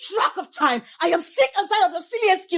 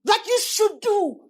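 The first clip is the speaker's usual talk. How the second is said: shouting wife; 4 semitones higher than usual. Acted. Wife demanding her husband's attention, shouting. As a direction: yell it out, voice climbing. Wife yelling about neglect.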